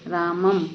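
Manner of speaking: रामम with a clear closing half m; anusvara pronunciation demo. Shown as a demonstration. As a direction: say रामम, ending on a short hummed m. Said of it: "इसका भी उच्चारण आधे माँ की तरह होगा". (रामम में अंत में आधा 'म' बोलें)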